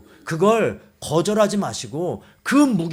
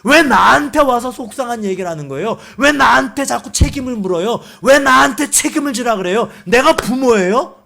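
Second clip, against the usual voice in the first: loud, raised-pitch acted protest; talking back; 5 semitones higher, 7 dB louder than usual. Moses disowning responsibility for the people, talking back. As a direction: fire indignant questions at God. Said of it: "라고 대드는 거예요".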